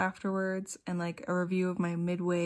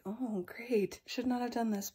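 whispered quote, softer; regretful whisper; 3 semitones higher, 6 dB quieter than usual. Retold or imitated. Retelling near throwing up, a wry whisper. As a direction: hush it out like a rueful aside. Quoting her regret about nausea.

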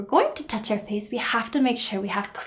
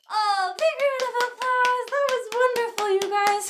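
excited praise; 11 semitones higher than usual. Real, not acted. Cheering the children.

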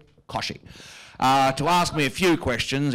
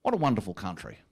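smug inner thought; 4 semitones lower, 5 dB quieter than usual. Retold or imitated. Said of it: "I think".

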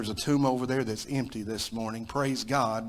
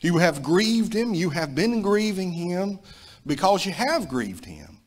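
higher and louder, pleading; impassioned preaching; 6 semitones higher, 3 dB louder than usual. Acted. Preacher reading Spurgeon to the church, higher and louder. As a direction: press the guilt home.

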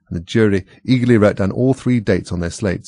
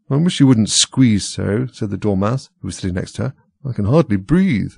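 Dormouse voice. Acted. Squeezed Dormouse complains.

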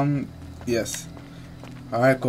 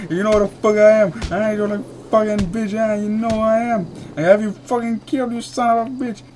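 higher-pitched trash talk, playfully outraged; mock angry rant; 5 semitones higher than usual. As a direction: curse out your rival in hammed-up outrage. Mock tirade at game opponent.

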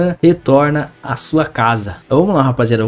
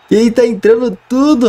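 excited; 9 semitones higher, 3 dB louder than usual. Real, not acted. Delighted at the goals.

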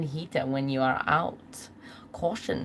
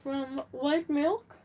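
cooking show host; 8 semitones higher than usual. Pretend.

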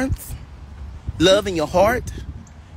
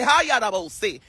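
tongues phrase demo. Shown as a demonstration. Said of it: "Yes, say".

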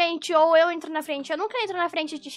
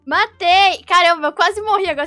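excited shout; 3 semitones higher, 12 dB louder, much slower than usual. Real, not acted. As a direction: cheer the kill out loud. She just won a fight. (grito de vitória)

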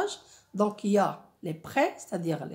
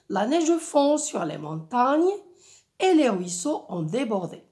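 lifted, well-articulated verse recitation; poetic reading; 3 semitones higher, 4 dB louder than usual. Shown as a demonstration. Teacher quotes the poet to the class, poetic reading. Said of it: "un rythme et un ton, euh, poétique".

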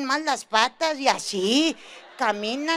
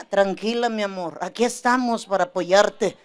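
tender husband; 6 semitones lower than usual. Retold or imitated. Esposo ideal tierno.

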